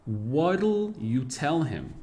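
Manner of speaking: "What'll you tell him?" with "what'll" contracted; native contraction. Shown as a demonstration. Teacher showing students the native contraction. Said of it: "Ao jeito nativo".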